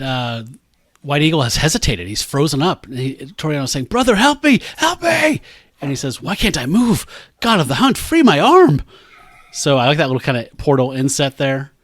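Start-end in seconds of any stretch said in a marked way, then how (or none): 3.9-5.4 high, hammed-up plea for help; dying brother begs for help, read half-mockingly; mock cry for help. Toriano pleads while being mauled. 6.2-8.8 mock desperate plea. Frozen hero begs god to move.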